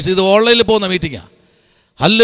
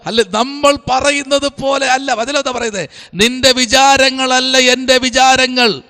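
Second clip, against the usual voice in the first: preaching; 4 semitones higher, slower than usual. Real, not acted. Declaims scripture to congregation.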